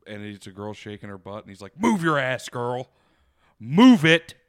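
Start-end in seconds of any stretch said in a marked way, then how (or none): 1.8-4.3 loud, higher mock-bossy command; a singer. Pretend singer orders a dancing girl, in a loud mock shout. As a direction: shout it like a pushy order, hammed up. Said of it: "I like to pretend that it's a famous singer".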